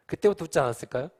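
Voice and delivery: normal talking voice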